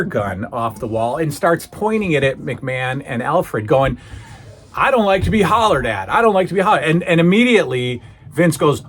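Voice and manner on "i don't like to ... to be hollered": higher, mock-aggrieved protest; indignant warning. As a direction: play a riled man objecting while making threats. Acting out Schultz angrily pointing gun.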